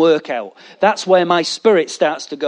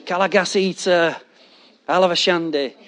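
softer, repetitive mock tongues; mock repetitive prayer tongues; stuck tongues; 4 dB quieter than usual. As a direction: chant the same two words by rote. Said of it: "stayed at that".

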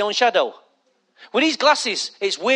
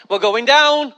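mock alarm; slower than usual. Passenger in turbulence, mild mock alarm.

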